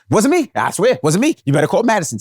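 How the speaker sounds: high, pleading, panicky denial; scared denial. Retold or imitated. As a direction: beg off the blame in a frightened rush. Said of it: "Gia sounded scared as a motherfucker".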